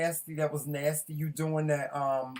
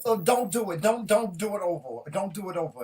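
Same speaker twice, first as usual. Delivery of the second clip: disgusted plea; 4 semitones higher than usual. Real, not acted. Disgusted at mayonnaise pickle.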